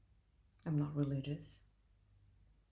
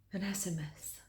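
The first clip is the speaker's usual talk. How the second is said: whispering; 3 semitones higher than usual. Acted. Phone buzzes at night.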